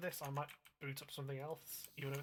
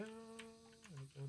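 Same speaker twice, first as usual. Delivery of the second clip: high, slow, soft singsong coo; drawn-out singsong; 6 semitones higher, 8 dB quieter, much slower than usual. Real, not acted. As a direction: stretch it out softly and sing it up high.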